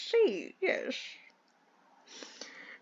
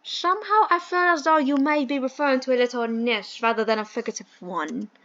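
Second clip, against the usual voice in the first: posh British gentleman; 3 semitones lower than usual. Acted. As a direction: play the fussy English employer in a mild posh accent. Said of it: "I hate this accent".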